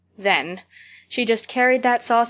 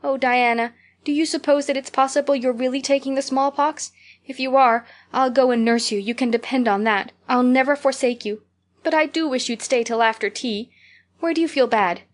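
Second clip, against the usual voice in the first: higher, worried earnest pleading; anxious fretting; 4 semitones higher than usual. Acted. Anne fretting that Diana has the smallpox. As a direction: fret over her friend with devotion.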